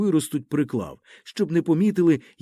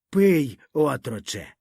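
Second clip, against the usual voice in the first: put-on drunk old grandfather; slower than usual. Drunk grandfather offers a drink.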